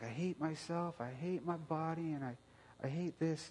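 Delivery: a hint of a hurting child saying she hates herself; daughter's voice.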